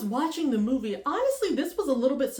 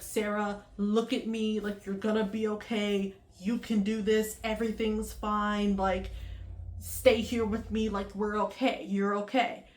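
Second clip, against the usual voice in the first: calming pep talk; 2 semitones lower than usual. Retold or imitated. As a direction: talk a panicking friend down gently. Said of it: "Trying to calm her down".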